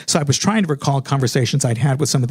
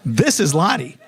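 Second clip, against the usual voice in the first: higher-pitched, needy phone message; trying to sound casual, audibly needy; desperate, clingy caller; 5 semitones higher than usual. Retold or imitated. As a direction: re-enact a run-on, overeager voicemail. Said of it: "I did feel like I sounded a little bit desperate".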